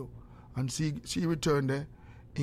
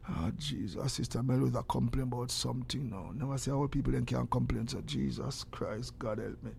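grumbling exasperation; 3 semitones lower, 7 dB quieter than usual. Real, not acted. Grumbling about Sister Melrose complaining.

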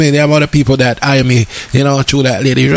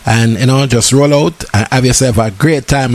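promo ad read; 4 semitones lower than usual. Acted. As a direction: announce the event like a radio ad. Reads event promo again.

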